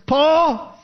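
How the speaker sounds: high, slow, mock outburst at Paul; loud outburst. Festus cutting off Paul's defense, mock loud outburst. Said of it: "Festus said in a loud voice".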